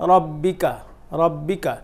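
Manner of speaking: রব্বিকা with the doubled ব held; রব্বিকা, hold the double b; correct doubled b. Shown as a demonstration. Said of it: "আসলে এটা হবে".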